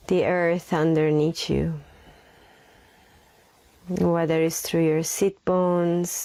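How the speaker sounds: unhurried meditation voice with long pauses; guided meditation. Acted. Leads a breathing meditation.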